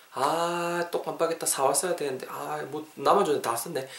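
soft muttering to oneself; mild sigh of having forgotten; quiet, self-reproachful aside; acted dismay. Acted scene out of softener.

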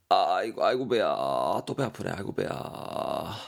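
mock stomachache groan. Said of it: "대거이가 말합니다".

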